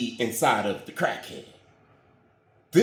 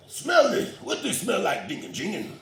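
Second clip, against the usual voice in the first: high mock voice; 5 semitones higher than usual. Pastor pranks deacon.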